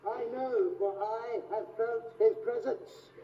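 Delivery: a hint of booming Darth Vader. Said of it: "opening scene from that new film".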